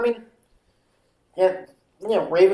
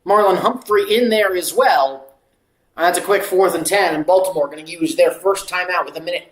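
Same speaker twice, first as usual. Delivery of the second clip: steady football commentary; live play-by-play; 5 dB louder than usual. Acted. Calling a loss and timeout for viewers, play-by-play. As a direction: call the play with measured projection.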